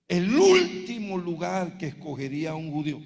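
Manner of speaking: loud shouted burst on último. Real, not acted. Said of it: "Perdóneme por levantar la voz".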